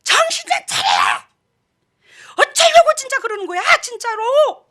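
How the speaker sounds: high, strained re-enacted shout; exasperated cry, voice pushed high; yelled scolding. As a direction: yell it like a fed-up wife at her husband. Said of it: "그럼 있는 대로 고함을 쳐".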